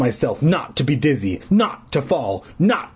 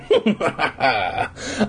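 cruel laugh. Acted. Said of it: "more laughter was the only reply".

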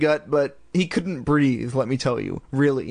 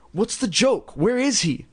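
demanding; 7 semitones higher than usual. A narrator's reading. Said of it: "Chris demanded".

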